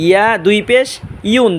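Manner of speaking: "ইউন" begun with a y glide; "ইয়া" drawn clearly from the palate; mid-tongue Y. Shown as a demonstration. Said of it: "জিব্বার মাঝখান".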